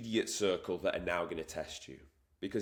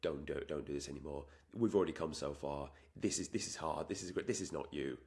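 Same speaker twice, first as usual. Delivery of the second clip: comfort voice; 5 semitones lower, 7 dB quieter than usual. Retold or imitated. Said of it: "the comfort side of your brain saying".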